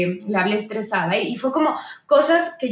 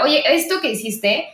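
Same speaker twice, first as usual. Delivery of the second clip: a firm, mildly raised retelling of telling him off; said strongly; 3 semitones higher than usual. Retold or imitated. A woman retelling her firm words to her partner, mildly raised. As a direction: lay it down firmly but not shouting. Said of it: "te lo digo como muy fuerte".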